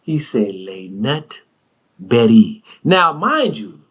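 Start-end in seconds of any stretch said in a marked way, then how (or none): 0.6-2.6 "Les Nut Berry" said low and slow, like a fine French dish; fancy foreign name. Retold or imitated. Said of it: "the way he just let it come off his lips".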